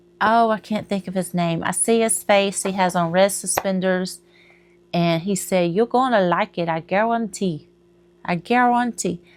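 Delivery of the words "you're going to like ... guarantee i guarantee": bad put-on French Cajun accent. Imitating a Cajun cook on TV: bad French Cajun accent. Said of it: "That's a bad French Cajun accent".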